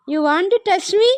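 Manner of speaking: drawn-out, very slow teasing sing-song; slow playful baby talk. Pretend. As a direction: tease the little one, stretching every word.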